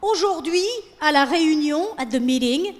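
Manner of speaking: trendy speaker imitation. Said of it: "someone saying".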